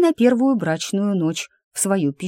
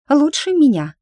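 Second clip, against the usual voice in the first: blurted out higher and louder; excited outburst; 9 semitones higher, 6 dB louder than usual. A narrator's reading. Girl blurts out to Bur, higher and louder. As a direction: burst out with it, eager and high.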